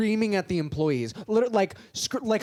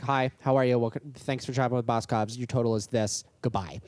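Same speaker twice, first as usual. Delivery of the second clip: low, brisk customer-service drone; bored cashier script; 5 semitones lower than usual. Retold or imitated. Cashier checking out a rude customer, bored drone. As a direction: rattle off the script, uninterested. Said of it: "usually I'm just like".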